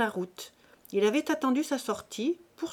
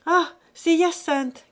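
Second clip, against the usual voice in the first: much higher, louder, slow glad cry; happy cry; 8 semitones higher, 9 dB louder, slower than usual. A narrator's reading. Mother greeting her son at the door, high and glad. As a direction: call out his name with joy. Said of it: "cria Rose, heureuse de le voir".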